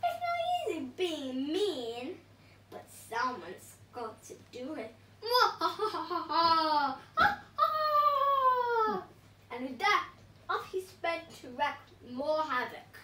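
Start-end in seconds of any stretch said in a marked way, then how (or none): 0.0-4.9 sneering villain. Acted. Villain boasting. 5.2-9.1 loud, high hammed-up evil laugh; over-the-top villain cackle.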